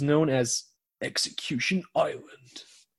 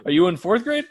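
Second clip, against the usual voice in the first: laughing; 8 semitones higher, 4 dB louder, faster than usual. Real, not acted. Teasing through laughter.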